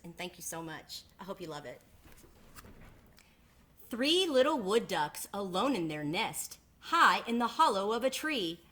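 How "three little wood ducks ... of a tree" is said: put-on gentle read-aloud voice for children; storybook narration; story narration. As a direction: tell it like a picture book to the class. Reads picture book to class.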